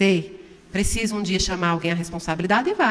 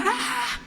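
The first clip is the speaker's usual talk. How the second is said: mock scream; 12 semitones higher, 7 dB quieter than usual. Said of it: "eu já dou aquele grito".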